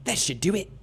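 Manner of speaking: light British echo; mock British accent. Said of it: "I'm British in space".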